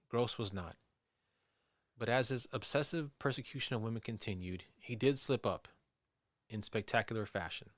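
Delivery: measured documentary storyteller read; true-crime narration. A narrator's reading. Host reads listeners the police profile of a killer, measured narration. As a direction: narrate the case evenly.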